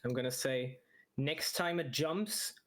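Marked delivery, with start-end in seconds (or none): 1.2-2.5 slow, raised call across a distance; calling from far away. Acted. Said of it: "I'm going to yell over at Alara".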